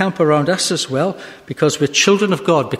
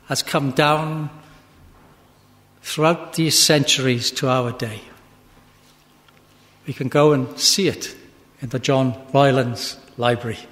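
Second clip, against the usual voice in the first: lower, measured preaching with long pauses; solemn closing exhortation; 3 semitones lower than usual. Real, not acted. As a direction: bring the sermon gently to rest.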